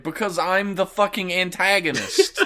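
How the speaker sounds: high, loud lines broken by laughter; laughing villain dad. Pretend. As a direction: laugh through the villain's retort. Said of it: "And he's like".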